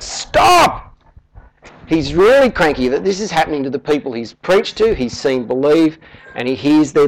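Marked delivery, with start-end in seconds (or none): 0.0-0.9 sudden high shout of alarm; parent's yell. Retold or imitated. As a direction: yell it like a parent stopping a child at the road. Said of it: "and he yells out".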